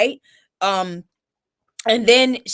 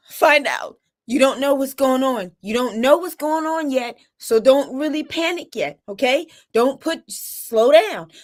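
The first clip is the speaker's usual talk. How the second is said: higher-pitched urgent pep talk to self; 3 semitones higher than usual. Retold or imitated. Mother steadying herself after bad news, urgent. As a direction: talk yourself out of panicking. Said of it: "I'm mentally talking to myself".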